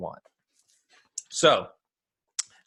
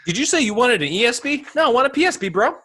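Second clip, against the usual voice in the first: bro voice; 12 semitones higher, faster than usual. Acted. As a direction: ham up a beer bro. Mock bro exchange about beer.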